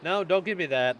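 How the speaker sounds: high, loud objection; emphatic, exasperated-sounding pushback; loud protest. Real, not acted. Streamer protesting chat's answer.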